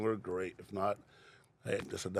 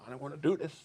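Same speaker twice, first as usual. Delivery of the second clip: emotional; 5 semitones higher, 4 dB quieter, faster than usual. Real, not acted. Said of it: "I'm getting emotional".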